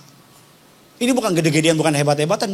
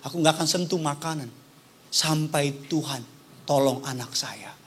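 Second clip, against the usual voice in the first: mother's prayer; 8 semitones lower than usual. Retold or imitated. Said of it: "Dan dia bilang".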